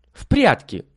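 eager suggestion. A narrator's reading. Lilya proposes hide-and-seek, eagerly. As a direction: propose it brightly.

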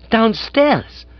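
high startled yelp of a question; aghast. A narrator's reading. Master hears his aunt has arrived, aghast. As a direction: blurt it in alarm, pitch shooting up.

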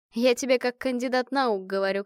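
ordinary delivery, nothing marked

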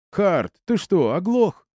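put-on high, slow drunk yell. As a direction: bellow it through the door. Drunk friend yelling through door.

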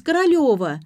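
high whiny call of her name; whining. A narrator's reading. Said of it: "заныла".

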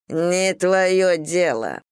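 slow, bitten-off words, held in; through the teeth. Acted. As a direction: spit it out slowly through clenched teeth. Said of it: "процедил демон".

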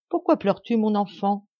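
high, gentle kindness; kind old woman. Acted. Old woman kindly asks the weeping girl why she cries. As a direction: comfort the weeping child. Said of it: "avec une grande bonté dans la voix".

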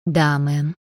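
"мэм" with a lengthened э, said submissively; mildly meek reply, lingering on the э of "мэм"; meek, drawn-out vowel. A narrator's reading. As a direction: obediently stretch the vowel in "мэм". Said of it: "протянув звук".

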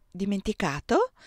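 lightly astonished rising question; a touch of wonder; mild surprise. Acted. Désiré answering Giuseppe, gently amazed. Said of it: "dissi meravigliata".

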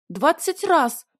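high, loud triumphant squeak; squeaky voice. A narrator's reading. Heroine summing up her grievance, loud squeaky voice. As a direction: sum up in a ringing squeal. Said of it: "ладно, пусть будет писклявым голосом".

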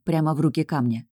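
ordinary delivery, nothing marked

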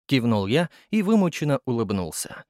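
usual speaking voice

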